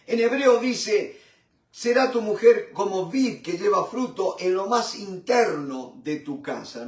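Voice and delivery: measured, solemn reading of the psalm; scripture reading. Acted. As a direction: read the verses like a preacher from the pulpit. (lectura solemne del salmo)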